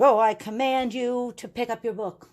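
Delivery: mock-regal order, drawn over the whole line; mock commanding. Teacher parodying how nobody gives classroom commands, mock commanding. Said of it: "We don't talk like that".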